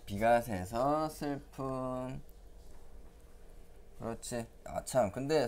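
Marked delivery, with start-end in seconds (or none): 0.0-2.2 very slow, soft summary; slow teacher recap. Shown as a demonstration. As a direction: draw out each word for the kids. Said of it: "summarising meaning".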